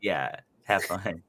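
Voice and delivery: drawn out, in a put-on voice; slow put-on voice. Shown as a demonstration. Host redoes the sign-off line slowly in a put-on voice. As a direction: stretch it out in a different voice. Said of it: "I forgot".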